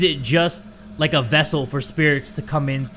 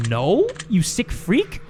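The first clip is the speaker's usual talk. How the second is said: slow disgusted retort; 4 semitones higher, much slower than usual. Real, not acted. Disgusted at question.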